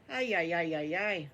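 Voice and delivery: a lightly voiced wife groaning ay ay ay in dismay. Wife hearing what her husband and Hartley had done, mild dismayed groan. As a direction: sigh it out like a wife hearing bad news. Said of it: "She goes".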